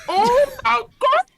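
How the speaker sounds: slow, very high, loud wail; horrified cry. Retold or imitated. Host ordered by police to strip, wailing in comic horror. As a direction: stretch it out in mock horror.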